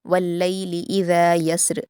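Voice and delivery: slow, melodic Quranic recitation; measured Quran recitation; tajweed recitation. Shown as a demonstration. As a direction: recite it slowly and carefully as a model for students. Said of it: "ऐसे पढ़ेंगे".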